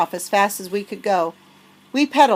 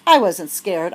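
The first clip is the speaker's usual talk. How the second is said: bragging; 4 dB louder, slower than usual. Acted. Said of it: "I bragged".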